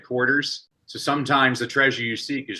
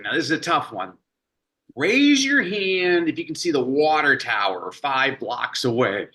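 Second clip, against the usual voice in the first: teacher addressing class; 3 semitones higher than usual. Retold or imitated. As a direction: call the class like a lively schoolteacher.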